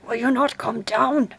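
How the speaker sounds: loud, impatient husband's demand; angry shout. A narrator's reading. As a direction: bellow up at the wife. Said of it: "cried Bluebeard".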